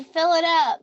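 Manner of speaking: lightly voiced customer order; gas station customer.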